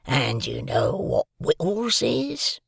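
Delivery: put-on loom over the boy and growl it; menacing convict. A narrator's reading.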